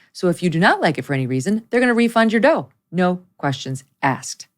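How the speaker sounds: upbeat, scripted sponsor read. Acted. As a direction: sell it like a podcast host reading copy. Reads a sponsor advertisement.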